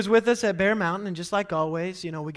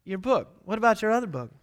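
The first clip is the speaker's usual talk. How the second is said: higher, louder exasperated teacher; mock fed-up teacher, building louder; scolding teacher; 4 semitones higher, 7 dB louder than usual. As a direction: scold the forgetful kid. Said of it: "students like me".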